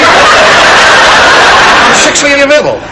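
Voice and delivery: slow, drawn-out hammed-up come-on; mock seductive. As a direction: purr it like a cheesy seducer, stretched out. Comedian hams up seductive line.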